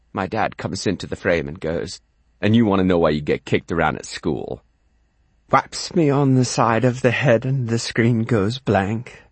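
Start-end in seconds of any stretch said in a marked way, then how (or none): 2.4-4.6 stern dad. Acted. Dad scolds the boy.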